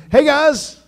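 high, loud cheery greeting; Mark Carrano greeting. Retold or imitated. Manager greeting all the tag teams, high and loud. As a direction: call out brightly to the guys. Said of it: "Mark Carrano gets out and says".

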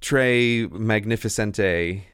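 slow, hammed-up French accent; exaggerated French cliché voice; mock French accent. Joking about beret-wearing French retreat.

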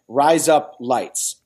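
"Rise up lights" drawn out word by word; slow phrase demo. Shown as a demonstration. Host teaching a word trick to co-hosts, slow demonstration. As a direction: say "Rise up lights" slowly, sounding like Australian "razor blades". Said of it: "razor blades with an Australian accent".

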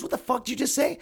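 high, mock in-your-face challenge; lightly acted outraged hood dude; Paul Thompson. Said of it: "Paul gets in his face".

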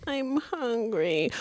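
mock-pitiful, slow moan; whiny drawn-out hungry. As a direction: stretch I'm hungry out very slowly and whine. Repeats complaint, drawn out.

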